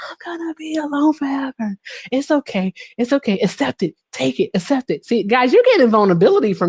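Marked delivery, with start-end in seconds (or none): 0.1-5.1 higher, hammed-up tearful self-pity; mock bawling. Crying alone in the car to a singer, hammed-up and higher. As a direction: wail it up high like mock sobbing.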